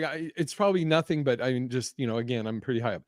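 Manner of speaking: soft, fast, brushing it off; quiet dismissive. Retold or imitated. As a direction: mumble it away quickly. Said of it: "she's like".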